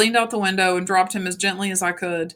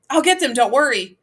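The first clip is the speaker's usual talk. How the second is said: raised, urgent promise; urgent reassurance; 5 semitones higher, 6 dB louder than usual. A narrator's reading. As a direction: call it out firmly over the panic. Man rushing toward burning church.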